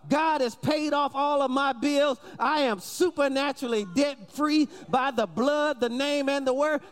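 bold faith declaration. Shown as a demonstration. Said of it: "to be able to say it out of your mouth".

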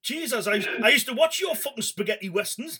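mock disappointment in a Geordie pal's voice, amused; mocking Geordie bloke. Geordie fan of spaghetti westerns berating Clint, mock let down. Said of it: "if it was a Geordie bloke".

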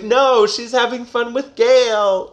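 knowing reader aside. Retold or imitated. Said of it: "Whereas we're like".

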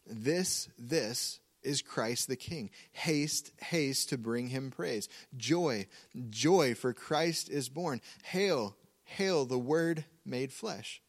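spoken lyrics, slow, setting off each doubled "This", "Haste", "Joy", "Hail"; emphatic repetition. Shown as a demonstration. Preacher quotes carol lyrics to the congregation, emphasizing each repeated word. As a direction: pause after the first "This", "Haste", "Joy", "Hail", then stretch the line. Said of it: "emphasize certain words through repetition".

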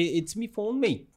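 lightly put-on British dialect, lilting up; a touch of British dialect; imitated British dialect. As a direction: mimic a British regional accent. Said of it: "there are dialects in".

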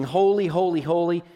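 emphatic, lifted proclamation; mildly loud cry. Acted. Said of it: "voice so loud".

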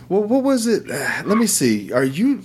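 high, put-on voice of a wiry little crackhead; imitating a squeaky crackhead, amused; voiced crackhead. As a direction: mimic a high-pitched jittery crackhead recognizing someone. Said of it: "And he goes".

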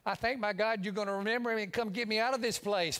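fast, pleading prayer; desperate pleading. Pretend. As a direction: beg to be rescued quickly. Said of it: "I'd be saying".

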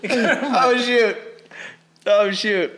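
laughing through burning heat; gasping laugh, mouth on fire; pained laughter. Real, not acted. Pepper burning after coughing fit.

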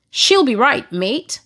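a hint of Aussie in a quoted catchphrase; Australian accent. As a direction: try a light Australian lilt. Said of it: "I heard it in their accent".

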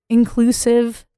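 inclusive, said high with a rise; upspeak. Real, not acted. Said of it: "why did you just upspeak that".

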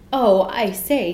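slow, loud delighted greeting; pleased surprise. A narrator's reading. Lion recognises Jane.

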